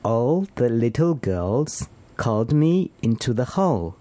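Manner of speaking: slow careful repeat, L in ALL and HALL; L practice sentence. Shown as a demonstration. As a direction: repeat slowly, landing each L in ALL and HALL. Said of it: "那就试着练习这个句子".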